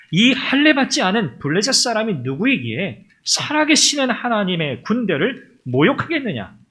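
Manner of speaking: retold indignation, firmly declaimed; indignant. Preacher voicing David's words against the Philistine, indignant. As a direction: voice David's outrage with measured force. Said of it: "울분에 차서 이렇게 말해요".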